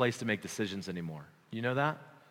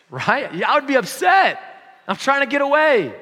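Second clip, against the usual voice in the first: much higher and louder, hammed-up outrage; mock outraged shout; 9 semitones higher, 10 dB louder than usual. Preacher to congregation, imagining being found on vacation: hammed-up shout. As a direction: blow up in comic indignation, much higher and louder.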